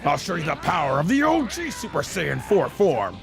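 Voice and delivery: lightly voiced cocky fighter, chuckling between remarks; lightly put-on hero voice; in-character anime hero. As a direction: play the Super Saiyan hero enjoying his own moves. Plays the game speaking as its fighter.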